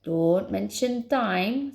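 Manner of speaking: slow, heavy rebuke; snapped. Acted. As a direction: snap it, drawing each word out. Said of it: "snapped Spoon".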